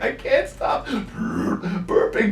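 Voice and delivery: slow, breathy mock panic; mock panicked. Sister retold, mock scared can't stop burping. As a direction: act out a scared girl, half-joking. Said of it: "She's like".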